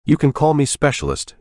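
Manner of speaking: a high, pointed snap-back; sharp retort. A narrator's reading. Soldier snapping back at old man.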